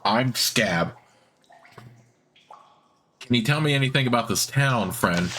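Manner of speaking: lightly rasped, rough-edged words; raspy voice. Acted. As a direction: rasp it out like an old drunk. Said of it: "he says in a raspy voice".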